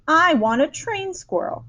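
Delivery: high, insistent bratty demand; demanding shout. A narrator's reading. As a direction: insist on it like a spoiled child. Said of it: "Veruca shouted".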